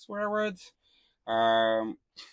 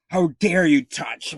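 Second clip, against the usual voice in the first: mock outraged owner; 5 semitones higher, 7 dB louder, slower than usual. Mocking outraged dog owner.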